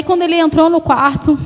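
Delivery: usual speaking voice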